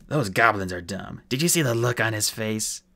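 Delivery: lightly voiced gleeful dwarf; a touch of rough-and-ready humor; amused dwarf. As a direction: gloat over a fallen foe. Mulch jokes about the goblin.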